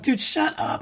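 breathy whispered shut up; whispered disbelief. Retold or imitated. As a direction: hush it out in high disbelief. Mock disbelief at friend's shoe.

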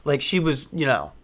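ordinary talk, nothing marked

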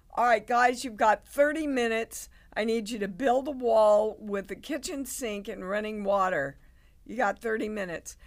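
rally the crew with a deadline; director barking orders. Retold or imitated. Director ordering the crew to build a set wall, loud brisk commands.

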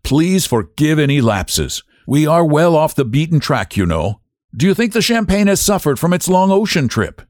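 a gracious host excusing his table; half apologetic general. A narrator's reading. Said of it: "Half apologetically".

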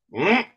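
short high rising "mm"; uncomfortable hum. Retold or imitated. Fan acting out discomfort at the front-row moment, high uneasy hum.

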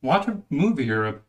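playful loud telling-off; mock scolding. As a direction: shoo the lingering viewers away. Shooing viewers after the show.

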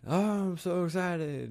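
high, slow exaggerated excitement; mock excited. Host teasing that he'll open the next show, hammed-up excitement. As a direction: ham up fake excitement. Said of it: "I'm gonna be like".

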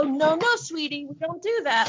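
mock-patronizing scolding; talking down as to a child. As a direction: imitate correcting a small child or a dog. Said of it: "talk to her like she's a child or a dog".

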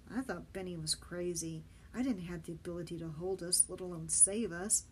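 ordinary delivery, nothing marked

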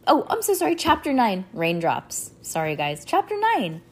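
plain reading voice

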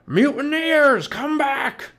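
drawn-out, high, loud bellow; Captain Bones shouting. A narrator's reading. Pirate captain calling back his mutineers, shouting high. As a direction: roar after the deserters. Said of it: "shouted Cap'n Bones".

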